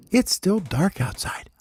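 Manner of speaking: unvoiced baby bird whisper. Baby bird whispering to daddy before dawn. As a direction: whisper it so nobody wakes.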